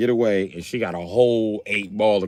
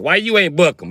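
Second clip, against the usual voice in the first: higher, louder demanding question; questioning cop; 9 semitones higher, 6 dB louder than usual. Retold or imitated. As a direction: challenge a fellow officer.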